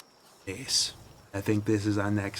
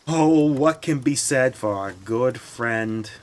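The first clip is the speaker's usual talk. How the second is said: mock eulogy; 2 semitones higher, 5 dB louder than usual. Mock eulogy for broken axe.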